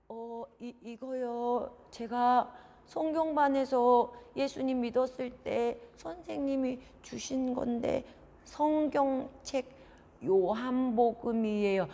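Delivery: slow, halting explanation; hesitant child. Acted. Son explaining the book to his father, hesitant. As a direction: answer a scolding parent carefully, drawing words out.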